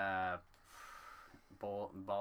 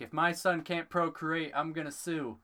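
high, loud mock outrage; hammed-up indignant dad voice; imitating angry dad; 7 semitones higher, 8 dB louder than usual. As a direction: put on a fuming father threatening people. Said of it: "one dad was getting all pissed off".

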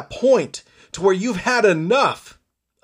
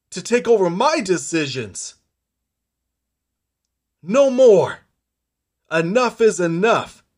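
defiant rallying cry. Acted. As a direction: hammer each no more like a punch. Fighter rallying against depression.

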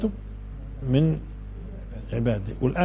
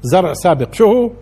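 much higher and louder, driving the point home; fiery preaching; 6 semitones higher, 7 dB louder than usual. Acted. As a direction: preach at full force to the crowd. Preacher rises to full force.

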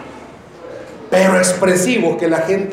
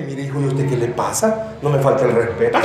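firm rebuke; 9 semitones lower, 4 dB quieter than usual. Retold or imitated. Wife firmly answering husband.

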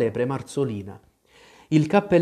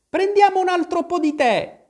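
very high, louder hospitable chirp; effusive storybook March Hare; very cordial; 5 dB louder than usual. A narrator's reading. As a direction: offer it eagerly in a high character voice. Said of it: "disse la lepre Marzolina ad Alice con molta cordialità".

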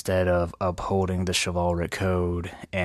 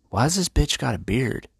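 higher-pitched mock bewilderment; baffled disbelief; 6 semitones higher than usual. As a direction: play it puzzled, pitch jumping up. Acted shock at bearded kiss.

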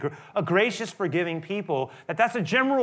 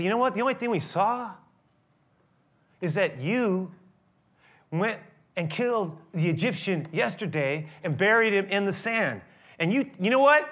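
mock accusing crowd; 3 semitones higher than usual. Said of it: "And they say".

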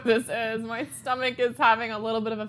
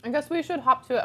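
talking through a mouthful of cheesecake; words round a bite of food; mouth full; 3 semitones higher than usual. Real, not acted. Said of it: "my mouth is full of cheesecake".

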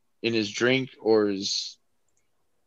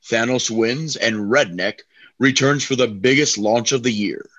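horror trailer voice. Acted. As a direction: read it like an ominous film promo. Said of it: "And Roland".

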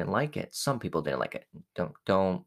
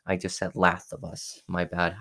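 lisping with missing teeth; toothless, slightly lisped speech; speaking without teeth. Real, not acted. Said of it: "I still don't have teeth".

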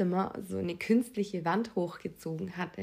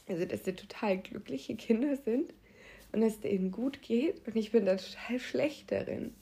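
breath catch tremor. Real, not acted. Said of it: "Sorry, ich muss weinen".

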